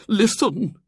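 bursting to share news; trembling with eagerness. Acted. Miss Hatherley announcing to the society, eager old lady.

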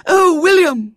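put-on very high, loud girl's voice; excited cry. A narrator's reading. Little girl running across the field to William, excitedly. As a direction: burst out with eager excitement. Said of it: "she cried excitedly".

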